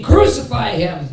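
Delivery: high, loud, drawn-out cry; acted crowd scream. Preacher voices the crowd condemning Jesus, mock scream. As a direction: call it out slowly like the mob. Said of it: "The people that were screaming".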